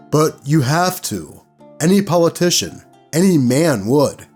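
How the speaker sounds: lightly voiced game master pressing the point; quoted insistence, slightly punched phrase by phrase; insistent game master. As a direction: imitate a game master pushing hard.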